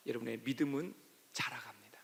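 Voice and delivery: hushed whisper to the congregation; a sudden intimate whisper from the pulpit. Real, not acted. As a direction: lean in and whisper it. Preacher drops to a whisper.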